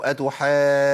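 "أتحاجون" with a hard push on the doubled jeem; forced jeem. Shown as a demonstration. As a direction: overdo the stop on the jeem of "أتحاجون". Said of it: "خلي الامور سهله كده".

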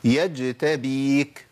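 "يجتبيك" with a loosely articulated jeem; weak jeem. Shown as a demonstration. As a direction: show the faulty "يجتبيك", jeem not seated in its place. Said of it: "عدم تمكين لمخرجها في حال السكون".

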